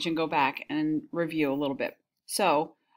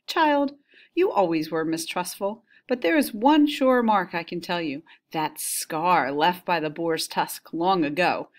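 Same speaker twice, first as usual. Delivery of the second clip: dramatic story reading. Acted. Teacher reading Penelope and the nurse's exchange, dramatic reading. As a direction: give the characters' quarrel some life. Reads the Odyssey dialogue aloud.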